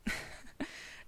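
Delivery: soft, breath-only little laugh; shaky laugh. A narrator's reading. Merlin laughing at Arthur's boast, a little shaky. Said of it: "Merlin laughed a little shakily".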